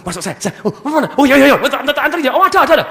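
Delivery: a lightly voiced property agent, suddenly loud; eager agent. Coach mimics an agent jumping up for a walk-in client, loud and eager.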